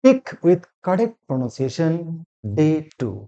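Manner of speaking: very slow, word by word announcement; slow title read. Shown as a demonstration. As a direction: spell out the class title slowly. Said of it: "spoken English class নং thirty nine". (ধীরে ধীরে শিরোনাম ঘোষণা)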